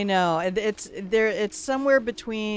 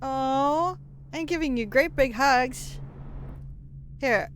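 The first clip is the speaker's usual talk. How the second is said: high granny greeting; 9 semitones higher than usual. Pretend. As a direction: coo at the cat like a doting grandma. Doting grandma voice for chatter.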